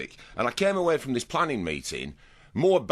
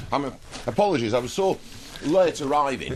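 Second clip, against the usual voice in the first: talking through a mouthful; words round a bite of food; mouth full; 2 semitones higher than usual. Real, not acted. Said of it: "I've come in with my mouth full".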